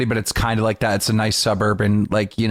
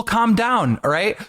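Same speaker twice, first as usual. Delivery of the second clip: placating; 9 semitones higher, slower than usual. Retold or imitated. Kid backing down.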